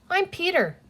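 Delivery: put-on high, friendly child's introduction; amiable. A narrator's reading. Boy introduces himself to the creature, amiable. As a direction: offer it like a new friend. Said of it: "he added amiably".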